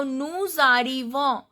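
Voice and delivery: "nous arrivons" linked with a Z sound; S pronounced. Shown as a demonstration. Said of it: "I am pronouncing this S".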